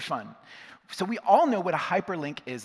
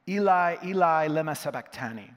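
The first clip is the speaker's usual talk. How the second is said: briefly raised voice, then easing back; loud cry, retold; 6 dB louder than usual. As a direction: mildly imitate a loud cry from the cross. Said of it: "cried out in a loud voice".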